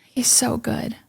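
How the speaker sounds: hushed, lightly imitated sob; a soft touch of tearful awe; retold sobbing. Overwhelmed worshipper to herself, mildly tearful. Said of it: "I'm just sobbing".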